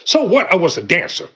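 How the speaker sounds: daring the listener to judge; defiant so what. Pretend. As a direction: shrug off the past boldly. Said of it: "tell folk very plainly".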